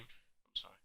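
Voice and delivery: a tiny breathy apology; whispered sorry. Pretend. Apologizing to the pretend friend in a tiny whisper. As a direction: drop to a near-silent whisper.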